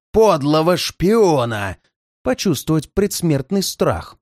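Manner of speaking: menacing villain. Acted. Bandit threatens prisoner with torture. (зловещий злодей)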